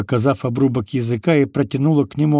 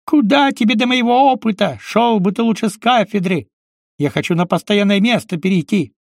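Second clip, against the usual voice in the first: snarling rebuke; 8 semitones higher than usual. Acted. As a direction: bite back contemptuously. Uncle Kolya berating Green.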